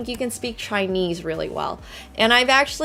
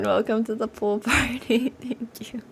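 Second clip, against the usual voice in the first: whispering; 5 dB quieter than usual. Real, not acted. Greeting supporter.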